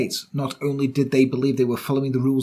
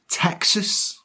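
whispered; 5 semitones higher than usual. Pretend. Whispered aside.

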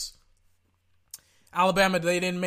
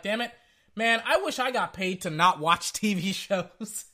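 laughing; 3 semitones higher, 3 dB louder than usual. Retold or imitated. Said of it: "I'm like".

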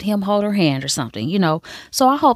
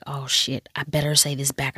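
softer, muttered-under-breath mock thought; inner panic; 3 semitones lower, 7 dB quieter than usual. Sawyer answering Juliet's I love you, softer mock aside. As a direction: mumble it to yourself, caught out.

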